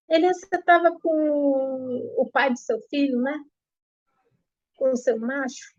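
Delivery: high, fast taunting accusation; husband taunting wife about another man, fast and high; jealous accusation. Retold or imitated. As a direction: sneer the charge out quickly.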